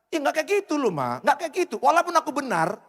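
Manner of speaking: meniru suami yang membela diri, nada tinggi; defensive husband. Retold or imitated. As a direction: protes kepada istri yang sedang marah. Husband defends himself to wife. (suami membela diri di depan istri, nada tinggi)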